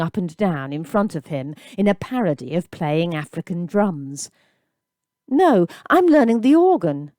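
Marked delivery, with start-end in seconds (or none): 5.3-7.1 anxious reply. A narrator's reading. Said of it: "Gabriel replied".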